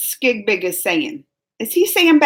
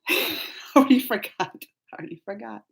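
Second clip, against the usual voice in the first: giggly; 5 dB quieter than usual. Real, not acted. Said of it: "I just have the silly giggles".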